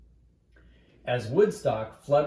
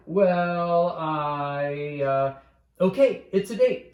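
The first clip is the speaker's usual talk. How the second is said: louder, higher flustered stammer; 4 semitones higher, 5 dB louder, slower than usual. Acted. Boy cornered on the phone, flustered stammer. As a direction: stumble over it, caught off guard.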